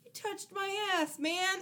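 high, slow whiny complaint; mock the whiny thug's outrage; whiny quote. Retelling the thug's line to co-host, high whiny mock. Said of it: "he's saying to a girl".

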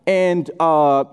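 lightly voiced awkward casual prayer; hesitant, offhand beginner praying; amateur new believer. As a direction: fumble through a prayer like a chat, with halting gaps. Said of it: "they'll just pray like they talk".

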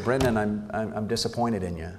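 calmly retold, softening at the end; quiet, understated disappointment. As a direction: tell a child calmly you're let down. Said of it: "I very calmly just said".

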